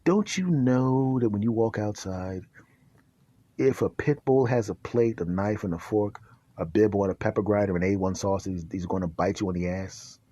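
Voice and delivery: low, soft, matter-of-fact doctor; deadpan doctor. Acted. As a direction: calmly explain the obvious, low. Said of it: "He goes".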